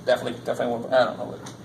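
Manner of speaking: lightly imitated film character, low monotone; Rain Man. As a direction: repeat it in a low, muttered monotone. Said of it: "a little Rain Man-ish".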